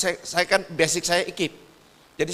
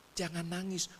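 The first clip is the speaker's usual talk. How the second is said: soft retold hushing; menenangkan murid; 2 semitones lower, 10 dB quieter than usual. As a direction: gently ask the crying child to stop. Soothing a crying pupil, first try. (lembut menenangkan anak yang menangis)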